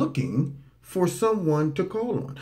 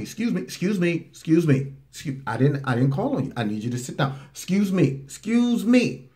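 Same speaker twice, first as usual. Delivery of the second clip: polite; 2 semitones higher than usual. Retold or imitated. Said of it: "he's going politely".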